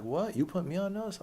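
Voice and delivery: high-pitched mock indignation; incredulous challenge. Hostel guy questioning being put on notice, incredulous.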